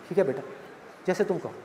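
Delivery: a defeated dad yields; meek father. Acted. Father meekly gives in. (हार मानकर धीमे स्वर में बेटी की बात मानते पिता)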